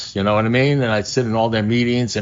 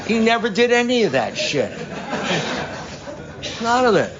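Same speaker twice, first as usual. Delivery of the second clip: higher, laughing while still telling it; laughing through it; 10 semitones higher than usual. Real, not acted. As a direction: keep talking through the giggles.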